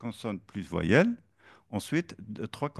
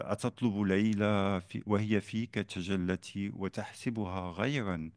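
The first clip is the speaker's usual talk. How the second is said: poem recitation. Shown as a demonstration. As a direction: recite the Arabic verse in measured rhythm. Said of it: "Et, euh".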